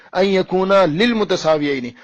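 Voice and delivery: slow Arabic quote with extra lil- in للمتساویین; opponent's misreading. Retold or imitated. Debater challenging his opponent, slowly quoting the faulty lil- in للمتساویین. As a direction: draw out the wrong lil- starting للمتساویین. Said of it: "جس طریقے سے آپ نے پڑھی ہے".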